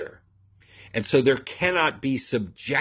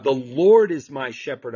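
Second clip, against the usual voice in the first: "Lord" punched louder; stress on Lord; 5 dB louder than usual. Shown as a demonstration. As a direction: hit "Lord" hard, then let the rest fall. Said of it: "notice the emphasis on the shepherd".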